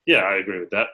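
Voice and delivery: low-key, unimpressed agreement; holding back. Shown as a demonstration. Recruiter showing interviewers how to answer candidates, unimpressed. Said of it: "holding it back 'cause you're".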